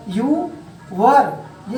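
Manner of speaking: British-style "were" as a short wur; word-by-word British-style demo, with pauses; British phonetic. Shown as a demonstration. Teacher shows students British phonetics, British-style demo. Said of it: "यही British phonetic में क्या होगा".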